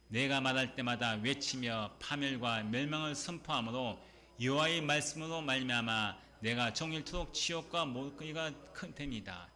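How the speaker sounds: slow, solemn reading of scripture. Acted. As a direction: read the verse slowly and gravely. Reads scripture aloud. (천천히 엄숙하게 성경 낭독)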